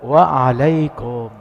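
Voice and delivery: very slow, drawn-out "Waalaikum"; measured reply. Retold or imitated. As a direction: stretch every vowel of the reply. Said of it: "Nabi menjawab".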